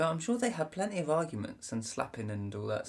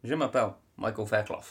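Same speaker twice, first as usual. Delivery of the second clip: French; 2 semitones lower, 4 dB louder than usual. Retold or imitated. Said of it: "It was like".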